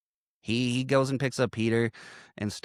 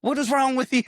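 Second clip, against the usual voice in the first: mock exasperation; 12 semitones higher, 4 dB louder than usual. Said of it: "And I'm like".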